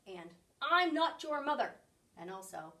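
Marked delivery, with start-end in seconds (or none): 0.6-1.8 loud, stern order to go away; stern bark. Acted. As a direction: shoo them off, loud and firm. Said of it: "Bruce was very stern".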